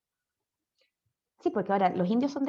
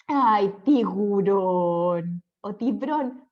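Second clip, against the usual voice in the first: put-on very slow, fond "tiburón" like a little kid; tender child's word; 3 semitones lower, much slower than usual. Teacher fondly imitating how children say it. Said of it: "que son ternuritas".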